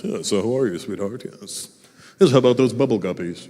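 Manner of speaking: a hint of a syrupy grown-up talking to a child; mock the fake-cool parent lightly; lightly voiced patronizing parent; condescending parent. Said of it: "those parents that are like".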